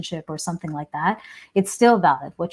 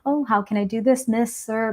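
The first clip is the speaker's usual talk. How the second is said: imitating polite Southern hospitality, pitched up; lightly exaggerated politeness; 4 semitones higher than usual. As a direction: put on mock courtesy, a little higher. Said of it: "Everyone's very polite".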